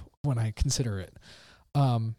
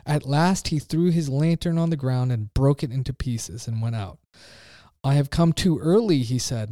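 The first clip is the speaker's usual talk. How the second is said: raised, intense reading of a philosopher's parable; dramatic reading. Acted. Preacher reading the madman's cry to his listeners, with rising intensity. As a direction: read it like a madman's sermon.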